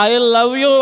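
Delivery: lightly mocking "I love you" in English; a touch of sneer at worldly love talk; mock worldly lover. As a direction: toss it off like a cheap line. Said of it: "లోకస్తులు అంటారు".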